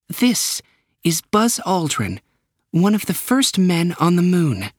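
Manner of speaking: high official voice, fast at first; director introducing. Acted. Director introducing Buzz Aldrin to Optimus, high and brisk.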